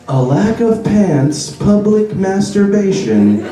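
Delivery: slow mock automated PA read; deadpan bus robot; robot announcement voice. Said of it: "they need to change that to".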